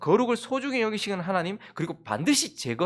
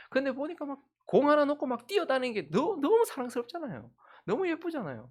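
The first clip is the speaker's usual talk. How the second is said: gushing doting; 9 semitones higher than usual. Real, not acted. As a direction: melt over how cute they are. Father gushing over his child. (아주 높은 목소리로 아이 자랑에 녹아내리듯)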